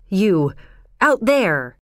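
trembling cry. Acted. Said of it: "he cried out in a trembling voice".

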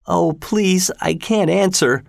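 high-pitched pleading murmur; murmured plea. A narrator's reading. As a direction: plead in a high, feeble boy voice. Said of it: "murmured Linton".

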